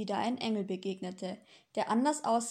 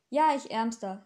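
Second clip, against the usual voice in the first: dry; 5 dB louder than usual. Acted. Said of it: "sagte Florian trocken".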